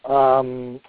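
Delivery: choking on something; clearing a choked throat. Real, not acted. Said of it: "I'm choking to death over here".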